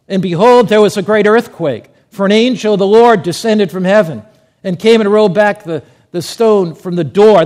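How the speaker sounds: loud, declamatory Bible reading; scripture reading. Acted. Preacher reading the resurrection account to the congregation, loudly proclaimed. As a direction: proclaim the verse to a full room.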